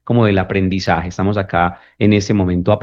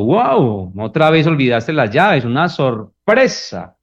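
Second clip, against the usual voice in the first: higher, with a slow, dragged-out una sorpresa; sarcastic; 4 semitones higher, slower than usual. Retold or imitated. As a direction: feign surprise to mock. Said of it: "Ese es el sarcasmo".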